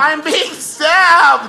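stabbed cow. Retold or imitated. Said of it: "the cows are going".

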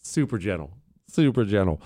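low, mock-soothing aside; super gentle. Host boasts of his loving voice, mock gentle. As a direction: say it with put-on gentleness. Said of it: "Listen how gentle I was".

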